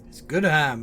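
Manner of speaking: put-on short line in a Finnish accent; lightly put-on Finnish accent. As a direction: say it as a Finnish soldier would. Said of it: "in his Finnish accent".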